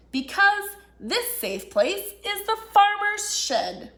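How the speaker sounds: unhappy seed. Acted. Unhappy little seed refusing the fox, indignant voice. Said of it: "Little Seed said".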